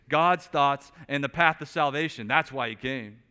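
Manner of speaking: loud, driving sermon delivery; preaching at full force. Acted. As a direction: hammer the point home to the congregation.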